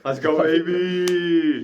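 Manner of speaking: loud, high, drawn-out cheer; excited shout. Real, not acted. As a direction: stretch out a celebratory yell. Cheering about shared star sign.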